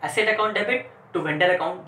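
very slow, word by word for notes; slow dictation. Shown as a demonstration. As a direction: dictate it so students can write. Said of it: "तो entry क्या होगी?".

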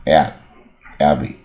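Abbey said slowly with an open ab; model sound ab. Shown as a demonstration. Teacher models Abbey for students, slow with an open A. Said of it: "这个音啊".

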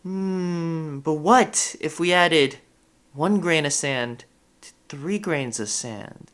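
slow, pondering question; musing. Acted. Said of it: "sort of thinks about this".

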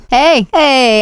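usual speaking voice

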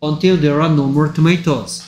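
very slow, word-by-word model sentence; slow reading model. Shown as a demonstration. Teacher feeding a sentence to a student to repeat, slow model reading. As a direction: read it out slowly for a learner to copy.

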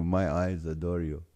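low, soft crooning to food; sexy voice. Acted. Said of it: "gets his sexy voice going".

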